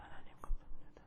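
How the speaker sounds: timid, very soft, breathless whisper.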